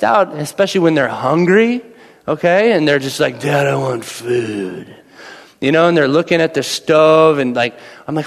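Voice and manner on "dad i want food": put-on whiny kid. Son voiced whining for food.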